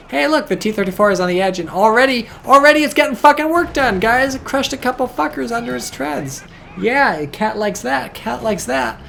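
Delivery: high, loud, thrilled yelling; excited shout. Real, not acted. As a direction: cheer it on like a hyped caster. Caster thrilled by T-34 crushing.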